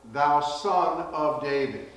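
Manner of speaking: loud, high desperate plea. Retold or imitated. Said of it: "they cried the more".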